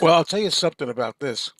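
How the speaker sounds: whispered aside; a whispered confidence. Real, not acted. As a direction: lean in and whisper it like a secret.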